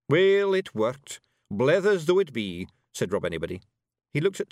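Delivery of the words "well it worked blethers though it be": high, loud wee Scottish fairy; rowdy little Scots pixie voice; broad Scottish accent. Acted. Rob replies.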